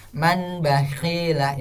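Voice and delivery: "Man bakhila" with a clear short n; plain n, straight on to "bakhila"; incorrect unhummed reading. Shown as a demonstration. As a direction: say "Man bakhila" with no hum between words. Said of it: "ini kurang benar".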